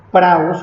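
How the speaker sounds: "praus" con la U tónica y marcada; acento en la U. Shown as a demonstration. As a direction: di "praus" apoyando la U. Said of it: "con acento en la U". (pronuncia "praus" con acento en la U)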